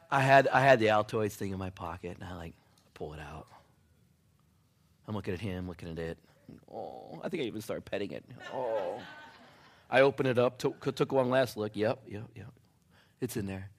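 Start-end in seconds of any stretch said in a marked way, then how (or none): 2.2-13.7 tender longing. Retold or imitated. Longing for last cigarette.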